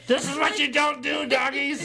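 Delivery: shrill-pitched dog telling-off; scolding the dogs. Retold or imitated. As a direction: talk down to naughty dogs.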